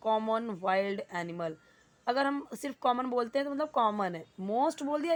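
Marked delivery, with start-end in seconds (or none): 0.1-1.5 slow teaching read. Shown as a demonstration. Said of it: "teacher reading example slowly".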